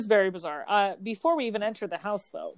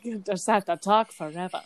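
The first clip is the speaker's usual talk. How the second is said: lightly mimicked hyper-enunciated accent; a hint of her British-American accent; character's bizarre accent. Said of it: "the way she's like".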